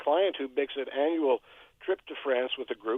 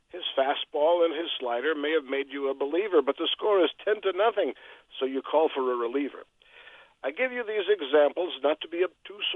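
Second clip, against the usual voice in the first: measured rhyming verse with punched line ends; poem recital; 3 semitones higher than usual. Acted. Radio poet reciting his weekly poem for the host, poem recital. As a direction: recite comic political verse in a steady metre.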